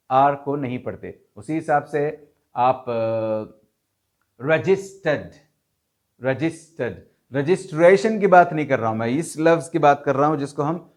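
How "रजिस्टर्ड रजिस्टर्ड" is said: रजिस्टर्ड said rəd͡ʒɪsʈəɖ, no R before the D; non-rhotic registered. Shown as a demonstration. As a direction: say रजिस्टर्ड without the R. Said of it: "आर नहीं पढ़ते".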